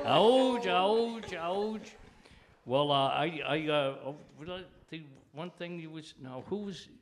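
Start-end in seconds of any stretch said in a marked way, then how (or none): 0.0-1.9 mock wince. Real, not acted. Mock pain at joke.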